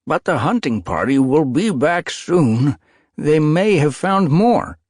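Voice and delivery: loud, high call across the cavern. A narrator's reading. Brown tom calling from the cavern edge, loud. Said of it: "a brown tom called".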